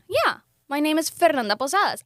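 Fernanda Posadas said proudly with rolled R. Shown as a demonstration. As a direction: roll the R in Fernanda Posadas, Spanish style. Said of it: "I roll my R's".

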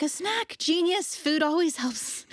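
high, amazed mock gratitude; hammed-up high surprise, slowing at the end; mock amazement. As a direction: play it like a revelation. Mocking her own overwhelmed surprise.

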